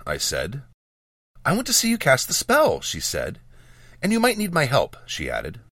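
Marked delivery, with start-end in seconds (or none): 1.5-2.8 put-on high, eager girl's voice; light, bright young apprentice. Girl apprentice Jas speaking. 4.0-5.0 put-on high, eager girl's voice; light, bright young apprentice. Girl apprentice Jas speaking.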